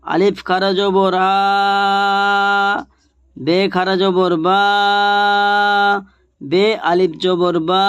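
each letter named, then খারা জবর and the long vowel with a pause; letter recitation drill. Shown as a demonstration. Teacher drilling students on Arabic letters, measured recitation. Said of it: "দেখেন এবারে".

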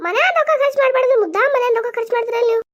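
scolding. Acted. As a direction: scold him for wasting money. Wife scolds husband over spending. (ಗದರಿಸುವ ಧ್ವನಿ)

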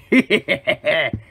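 short scheming laugh; villainous chuckle. Acted. Villain gloating over infiltration, chuckling.

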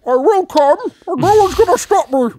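corrupt politician. Pretend. Mock campaign declaration.

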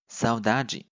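saudade with final de said "djee"; Brazilian G sound. Shown as a demonstration. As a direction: show saudade ending in a "jee" sound. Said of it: "它就发成G的音". (saudade词尾de读成“ji”)

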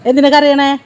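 gently pleading with a weeping grandmother; coaxing a crying elder. Real, not acted. Soothing a crying old woman.

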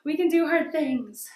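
rally yourself with energy; loud motivational cheer. Shown as a demonstration. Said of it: "It's one of my mottos".

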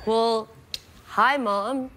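American greeting to a mother; American accent. Acted. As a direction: answer the phone in put-on American. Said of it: "in this accent the whole time".

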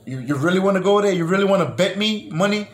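retold challenge. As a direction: imitate her calling his bluff. Retold challenge to his bet.

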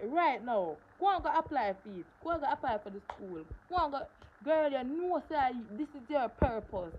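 urging teacher. Retold or imitated. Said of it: "the teacher said".

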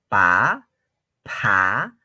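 "Pa" with a puff of breath; aspirated P. Shown as a demonstration. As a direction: blow air out after the P in "Pa". Teacher contrasts aspirated P. (pa aspirada, soplando)

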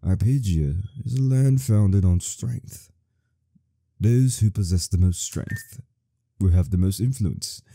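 a hint of an old storyteller; old man voice. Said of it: "am I getting this old man".

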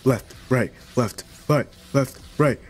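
high, loud chasing officer; cop voice. Acted. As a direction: bark orders as a cop. Playing a police officer.

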